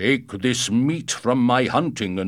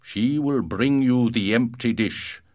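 booming male voice; 5 dB louder than usual. Acted. Giant gives orders, loud.

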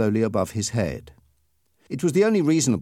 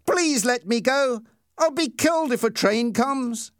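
high-pitched begging; pleading, restrained panic; frightened plea; 11 semitones higher than usual. A narrator's reading. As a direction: beg your captors for your life. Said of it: "screamed Peter".

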